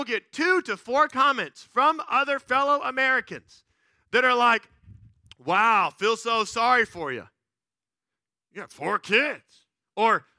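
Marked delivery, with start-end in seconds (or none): 5.4-9.7 exaggerated slow sympathy; mock pity. Shopper commenting on his four kids, mock pitying. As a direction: imitate an over-sympathetic stranger. Mimics strangers pitying him in store.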